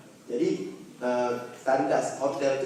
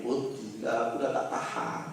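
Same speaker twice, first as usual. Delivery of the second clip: soft, weary begging voice; a softer, breathy plea to stop reciting; pleading jinn; 3 semitones lower, 6 dB quieter than usual. Retold or imitated. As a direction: beg to stop, worn out. Jinn begs him to stop.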